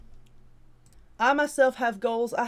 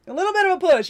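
said again clearly and louder; clean retake; 8 semitones higher, 8 dB louder, faster than usual. Real, not acted. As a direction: fix the stumble, say it cleanly. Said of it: "See, I can't even speak".

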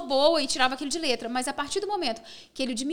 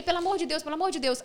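slightly raised, hurried begging; retold pleading; 3 semitones higher, faster than usual. Reporter begging a player for a ride, retold pleading. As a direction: plead twice for a small favour.

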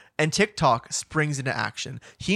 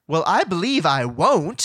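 prim Dorothy refusal; 2 semitones higher, 3 dB louder than usual. Retold or imitated. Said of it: "Dorothy's like".

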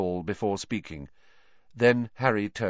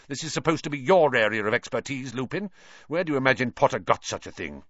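accusing; 4 semitones higher, 5 dB louder than usual. Acted. Snape accusing Lupin angrily.

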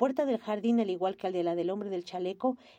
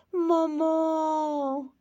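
louder, higher joyful cry; joyful call; 7 semitones higher, 5 dB louder than usual. Acted. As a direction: call her name with arms open. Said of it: "gritó con los brazos extendidos".

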